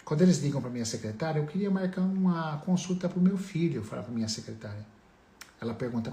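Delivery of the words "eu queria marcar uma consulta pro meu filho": lightly voiced parent caller, higher pitch; pais ao telefone. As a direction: make a polite request in a raised pitch. Pais ligando para a secretária. (imitando de leve quem liga, tom mais agudo)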